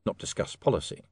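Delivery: ordinary delivery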